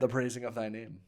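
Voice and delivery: lightly put-on Scottish accent; mild Scottish lilt. Shown as a demonstration. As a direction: recite it with a touch of Scots. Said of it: "do it in a Scottish accent".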